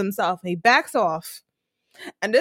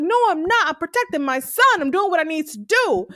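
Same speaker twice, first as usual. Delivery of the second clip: higher-pitched defiant retort, imitated; Tasha; 5 semitones higher than usual. Tasha defending how she protects her son, defiant. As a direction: play a mother standing her ground. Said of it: "She's like".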